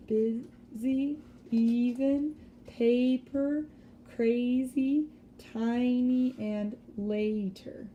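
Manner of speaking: long vowel in each word drawn out and stressed; each word's long vowel pulled out and stressed. Shown as a demonstration. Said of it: "I tried to emphasize just that sound".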